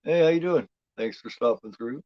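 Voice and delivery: mock announcer welcome; host voice. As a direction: play a chirpy presenter.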